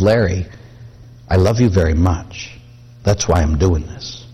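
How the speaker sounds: lightly voiced loving dad; fatherly tenderness. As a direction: hold him and say it gently. Father hugging son after discipline.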